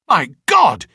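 loud shocked exclamation; crying out. Acted. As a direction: burst out in alarm. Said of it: "he cried".

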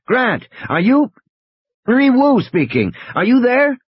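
high-pitched, urgent radio call. Acted. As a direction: call out to reach someone on the radio. Wu calling over crackling radio.

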